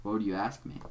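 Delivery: low, measured, quiet villain voice; deep Doc Scratch voice. Acted. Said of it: "a really deep voice".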